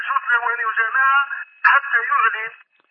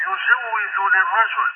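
voice raised on request; slower than usual. Real, not acted. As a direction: raise your voice to be understood. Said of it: "ارفع صوتك". (صوت مرفوع ببطء ليُفهم)

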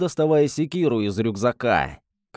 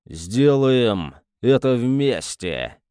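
rumbling voice; much slower than usual. Acted. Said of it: "пророкотал Эстебан".

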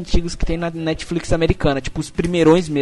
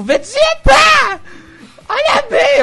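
shouted high stereotype Italian; Italian accent; 6 dB louder, much slower than usual. Shown as a demonstration. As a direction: yell it like a hammy Italian. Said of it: "como é italiano".

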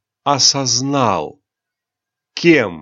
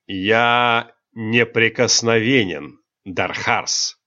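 hard; slower than usual. Acted. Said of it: "жёстко произнёс кронпринц".

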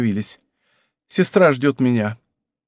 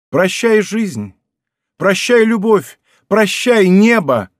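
higher, louder, drawn-out cries of farewell; a lover's anguished farewell, hammed a little; desperate farewell; 5 semitones higher, 4 dB louder, slower than usual. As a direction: tear each goodbye out of the heart.

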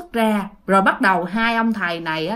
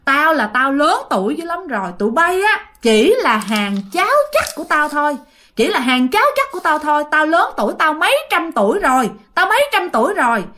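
higher-pitched, indignant ghost outburst; raised-pitch retold hollering; mock yelling spirit; 5 semitones higher than usual. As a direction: imitate an ancient spirit proclaiming its seniority. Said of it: "mới la làng lên nói".

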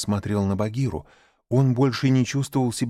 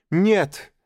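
put-on high, loud boyish cry; hot exclamation; 9 semitones higher, 5 dB louder than usual. Mowgli protesting to Bagheera, loud cry. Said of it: "горячо воскликнул он".

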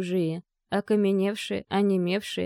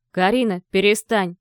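louder sharp bark; 6 dB louder than usual. Acted. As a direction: snap at her to stop. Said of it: "рявкнул".

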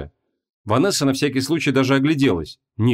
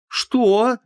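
sharp what; 12 semitones higher than usual. A narrator's reading. Vanessa raises her weapon again, snapping much higher. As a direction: threaten with the question. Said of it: "снова замахнулась Вон".

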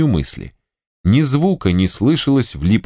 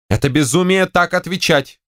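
higher, indignant retort; shouting back; 9 semitones higher than usual. Acted. Wife to general, indignantly shouting back. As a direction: throw his word back at him. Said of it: "крикнула генеральша".

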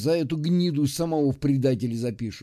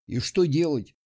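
angry question. Acted. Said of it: "зло спросил он".

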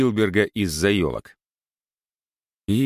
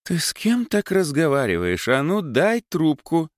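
stern mother's voice, higher; 9 semitones higher than usual. Acted. Mother scolds daughter on phone.

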